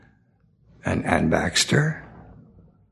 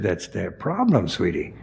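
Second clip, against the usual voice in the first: dry dismissal. Retold or imitated. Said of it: "I said".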